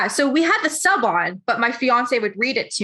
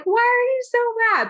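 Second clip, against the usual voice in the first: incredulous why; 12 semitones higher than usual. Retold or imitated. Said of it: "And I'm like".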